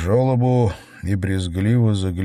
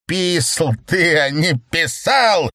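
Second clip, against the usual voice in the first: barking; 8 semitones higher, 3 dB louder than usual. A narrator's reading. Mokin barks at the whining chairman, angry. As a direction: snap back at him. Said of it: "рявкнул Мокин".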